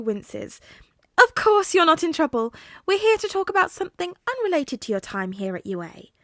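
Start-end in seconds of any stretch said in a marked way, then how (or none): 1.2-6.1 louder, higher kindly principal; higher voiced principal calming a worried young man; higher voiced principal, reassuring. A narrator's reading. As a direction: reassure the nervous young hero. Nezu reassures Tensei.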